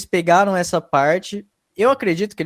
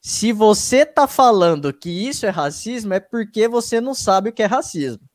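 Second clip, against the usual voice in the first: raised, deliberate declaration on "Se você tá falando"; emphatic self-quote; 5 semitones higher than usual. Retold or imitated. Quoting his own video ending to listeners, emphatic. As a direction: make each part of "Se você tá falando" stand out, pitched up. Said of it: "No final do vídeo eu falei assim".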